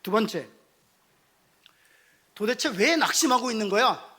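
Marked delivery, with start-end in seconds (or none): 2.3-4.2 reproachful. Acted. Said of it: "가 아니에요".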